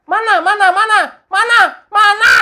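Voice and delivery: loud, rising mock demand; shouting where where where; angry demanding. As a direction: hammer him for the evidence. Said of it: "Pak, jangan dimarahin".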